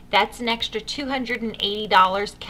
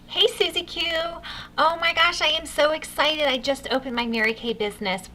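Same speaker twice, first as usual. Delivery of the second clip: higher, excited phone invitation; enthusiastic booking script; 3 semitones higher than usual. Shown as a demonstration. Consultant inviting a friend to borrow her face, enthusiastic. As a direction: gush about your brand-new business. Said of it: "memorize the enthusiasm in my voice".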